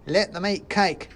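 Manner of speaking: high, loud, slow squeaky jeer; a tiny soldier mocking the crowd; shouting mouse soldier. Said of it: "shouted the soldier".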